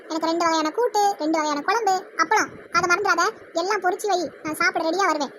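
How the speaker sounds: brisk, open-voiced lunch order; bossy ordering. Mother-in-law orders lunch from daughter-in-law, bossy. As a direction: list the dishes as orders.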